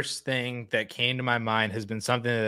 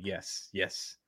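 quiet murmured agreement; 3 semitones lower, 9 dB quieter than usual. Retold or imitated. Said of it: "I'm just like".

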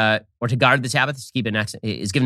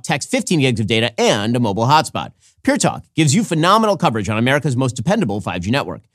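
ad read. Acted. Reads a sponsor ad.

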